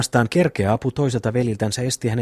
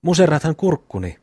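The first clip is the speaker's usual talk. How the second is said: higher, strained cry as the throat is squeezed; choking plea; 6 semitones higher than usual. Acted. Boy being throttled by Juhani cries out, choking. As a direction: gasp it out while being throttled.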